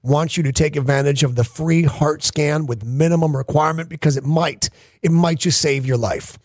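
earnest, measured sponsor pitch; live ad read. Acted. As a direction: urge listeners deliberately, with pauses between points. Host gives a live sponsor read.

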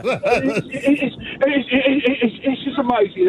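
stumbling over it's through a laugh; laughing stammer. Real, not acted. Caller thanks the hosts, laughing and stammering. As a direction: giggle while searching for words.

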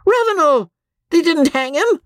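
husband shouting in angry relief; furious. Acted. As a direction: bellow it in outrage.

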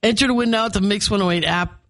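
talking through hiccups. Real, not acted. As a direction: hiccups breaking the words. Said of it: "I have the hiccups".

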